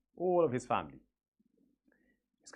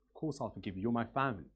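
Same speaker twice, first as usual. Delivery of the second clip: soft, smiling reassurance; smiling gentle forgiveness; 3 dB quieter than usual. Retold or imitated. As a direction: forgive him gently with a smile. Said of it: "he smiles and he says".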